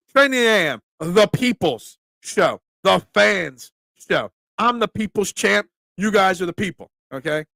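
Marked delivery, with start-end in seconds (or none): 0.1-4.3 slow, drawn-out naming of the show, like a title card; show title announce. Shown as a demonstration. Host to chat, slowly announcing the show's new name. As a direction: stretch each word out as you christen the show. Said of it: "That's what I'm gonna call this".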